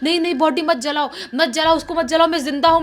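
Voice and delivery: loud frantic pleading; frantic shouting. Retold or imitated. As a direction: cry out not to be burned alive. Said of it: "ऐसे चिल्ला रही है".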